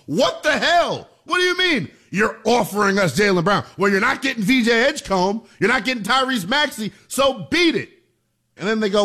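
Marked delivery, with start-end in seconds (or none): 0.1-3.6 imitating disbelief. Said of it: "probably thought". 3.8-7.9 dismissive brush-off. Retold or imitated. Sixers rebuffing Boston, voiced.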